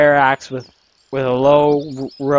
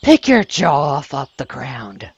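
slow, deliberate hothead character line; lightly voiced brash girl, drawn out; less manly retry; 2 semitones lower than usual. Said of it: "That sounded too manly".

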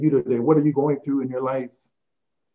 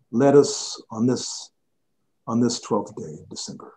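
closing prayer. Acted. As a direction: pray it over the listeners.

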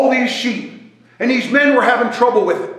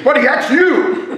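laughing; 5 semitones higher than usual. Retold or imitated. Telling friend he puked on him.

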